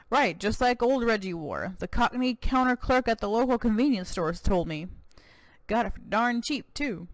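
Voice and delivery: lightly voiced American cowboy governor, proud; a touch of boastful Texan governor.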